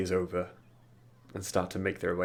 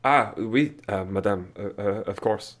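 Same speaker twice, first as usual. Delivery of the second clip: flustered French servant; 5 dB louder than usual. Acted. Cecil flustered at the elf.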